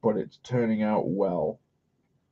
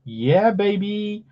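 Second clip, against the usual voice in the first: excited; 9 semitones higher, slower than usual. Acted. Hyping self while coloring.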